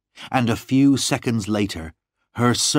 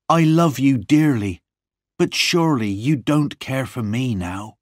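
raised, pleading declaration of love; higher voice, urgent and heartfelt; impassioned cry; 5 semitones higher, 4 dB louder than usual. A narrator's reading. John holding Lorna close, impassioned cry. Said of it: "I cried, holding her close to me".

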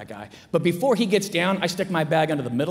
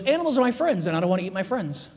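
deadpan. Retold or imitated.

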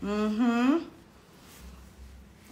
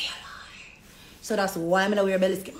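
whisper; 3 semitones lower than usual. Retold or imitated. Whispered banter continues.

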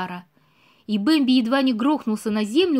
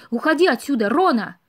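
louder shout; 4 dB louder than usual. Acted. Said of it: "ещё громче крикнул Бэмби".

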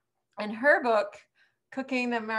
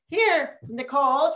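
high, hammed-up Julia Child voice, calling out; 6 semitones higher, 4 dB louder than usual. Cooking teacher mimics Julia Child for class, high and hammy. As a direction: play the grand TV chef handing over the dish. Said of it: "I'm gonna be like Julia Childs".

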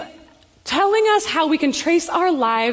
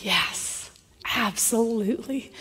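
soft yes; 4 semitones lower, 8 dB quieter than usual. Retold or imitated. Men agree to pray.

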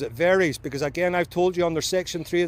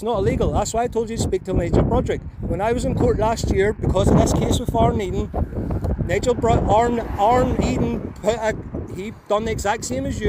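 raised voice; 4 semitones higher than usual. Real, not acted. Driver arguing his court case to a constable, raised voice. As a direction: raise your voice to be heard over passing cars. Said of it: "You don't need to shout".

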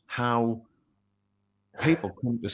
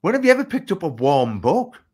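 laughing disbelief; 8 semitones higher, 6 dB louder than usual. Real, not acted. Laughing retelling of warm books.

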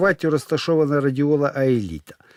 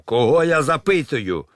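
terrible roar; 4 semitones higher, 4 dB louder than usual. Acted. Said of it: "реве жахливим голосом".

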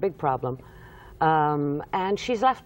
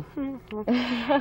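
pondering hum; 7 semitones higher than usual. Retold or imitated. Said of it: "people are sitting there going".

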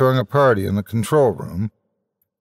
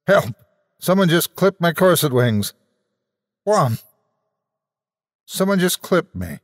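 mock alarm; 7 semitones higher than usual. Announcer hit in battle.

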